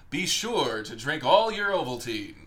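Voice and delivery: slow, loud mock proclamation; deliberate message readout. Co-host voices the boy's decoded secret message, slow proclamation. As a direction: spell out the secret message slowly and loudly.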